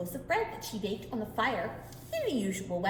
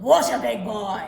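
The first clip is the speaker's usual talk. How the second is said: impressed giant; 2 semitones lower, 10 dB louder than usual. Acted.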